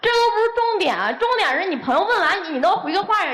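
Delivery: high-pitched, exasperated reproach; real heated scolding. Real, not acted. Girlfriend scolds boyfriend for not answering his friend, heated reproach. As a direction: press the accusation home, exasperated.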